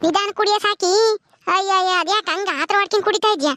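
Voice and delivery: fussing neighbour. Acted. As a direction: fuss over her like a worried neighbour. Neighbour fussing over drinking woman.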